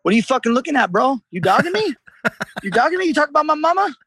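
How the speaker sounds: mock tough-guy teen. Imitating an American teen spoiling for a fight, hammed-up. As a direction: play a touchy punk picking a fight.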